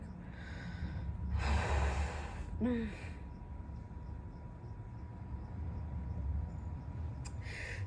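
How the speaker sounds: long shaky tearful exhale; soft drawn-out sigh, needing a minute; overwhelmed sigh. Real, not acted. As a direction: breathe out slowly, near tears. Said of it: "I need a minute".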